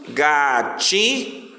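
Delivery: GATI drawn out as ga, ti; teacher sounding out "Gati" up to the line break; piece by piece. Shown as a demonstration. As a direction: say "Gati" in two separate, stretched syllables. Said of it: "vai falando pedaço por pedaço".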